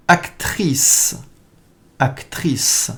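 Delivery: Actrice breathed out with no voice, a-ktrice; whispered word. Shown as a demonstration. Teacher whispers Actrice to learners, soft and voiceless. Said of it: "Please hear the words and repeat after me".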